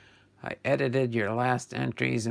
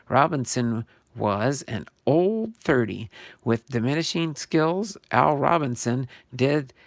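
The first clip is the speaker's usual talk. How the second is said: emphatic read-aloud delivery; card write-up read aloud; 5 dB louder than usual. Acted. Host reading a player's card story to viewers, emphatic read-aloud. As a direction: read it out with punched key words.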